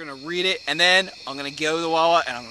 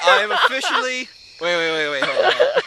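excited outburst; 9 semitones higher, 8 dB louder than usual. Real, not acted. Stops himself mid-announcement.

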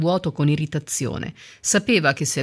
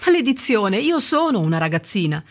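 mild outburst; 5 semitones higher than usual. Acted. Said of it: "sbotò Courtney".

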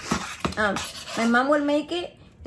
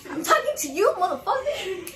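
retold confrontation; 5 semitones higher than usual. Retells confronting the cat.

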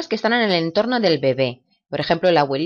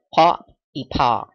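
slow demo; 3 semitones lower, slower than usual. Shown as a demonstration.

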